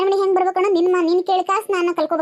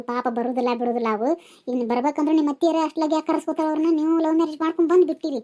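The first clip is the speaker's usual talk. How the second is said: soothing aunty; 3 semitones lower than usual. Acted. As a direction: play the kindly elder settling a fight. Aunty advises the girls. (ಕಡಿಮೆ ಧ್ವನಿಯಲ್ಲಿ ಸಮಾಧಾನಿಸುವ aunty)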